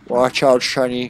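lightly slurred Scottish movie-star impression; mock Scottish gentleman; Sean Connery. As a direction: turn the s sounds into sh. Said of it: "Sean Connery accent".

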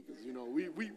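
ordinary talk

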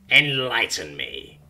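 slow, flat-toned groaning creature; unamused abductor humoring her, groaning. Acted. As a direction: drag it out, unimpressed. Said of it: "the unamused abductor groans".

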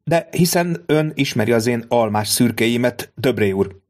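a hint of a scornful noblewoman; haughty baroness. Baroness voiced in story.

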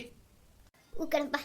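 a quiet, very slow, tearful reply. Acted. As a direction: answer through tears of joy. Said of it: "ಅವರೇ, ಅಳ್ಬೇಡ್ರಿ". (ಕಣ್ಣೀರಿನಲ್ಲಿ ಮೆಲ್ಲಗೆ)

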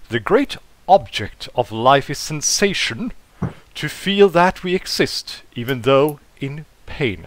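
lightly posh English, grand quotation; posh English accent. Acted. Robot points a finger quoting poets, posh English accent. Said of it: "a posh English accent".

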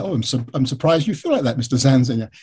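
mildly surprised, courteous English caller; terribly polite. Shown as a demonstration. Biographer handling an angry man by phone, terribly polite. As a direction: play it innocently polite. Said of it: "terribly polite".

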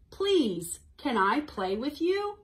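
mildly strong, polite storybook voice; nice strong voice. A narrator's reading. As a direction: ask politely and firmly. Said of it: "in a nice, strong voice".

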